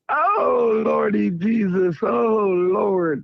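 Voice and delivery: lightly voiced Marcus, moaning Lordy Jesus through leftover laughter; mock preacher's groan of Lordy Jesus; Marcus impression. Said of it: "There go Marcus Sarah for you".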